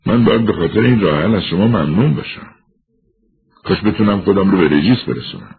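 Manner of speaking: character voice. Acted. Felix voiced in dialogue. (صدای شخصیت فلیکس، کمی زیرتر و خسته)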